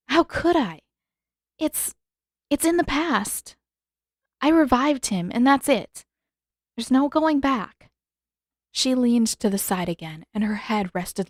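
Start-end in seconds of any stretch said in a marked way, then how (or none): 0.1-7.9 lightly voiced young woman, higher and resigned; a hint of sad acceptance; Katara's voice. Katara dialogue in story.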